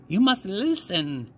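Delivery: put-on stern old storyteller. A narrator's reading. Grandmother scolds.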